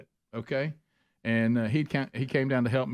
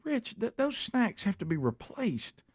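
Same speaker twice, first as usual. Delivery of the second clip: retold insistence; 8 semitones higher, 4 dB quieter than usual.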